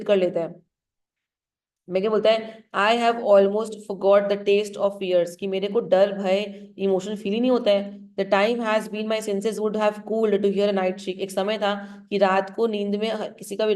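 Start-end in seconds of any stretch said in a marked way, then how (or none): 2.8-5.3 slow recital. Shown as a demonstration. Teacher recites Macbeth slowly. 8.2-11.1 slow recital. Shown as a demonstration. Teacher recites Macbeth slowly.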